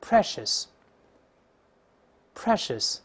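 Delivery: precious read slowly, tongue tip kept flat, no r; slow drilled pronunciation. Shown as a demonstration. Teacher drilling the class on precious, slow and clear. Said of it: "跟老师大声读一遍".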